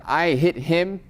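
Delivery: I hit him! said with exclamation force; exclamatory emphasis. Shown as a demonstration. Teacher to class, showing emphasis, I hit him! exclaimed. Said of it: "exclamation point".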